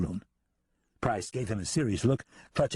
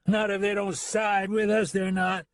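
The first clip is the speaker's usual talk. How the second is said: put-on angry drunken voice; 10 semitones higher than usual.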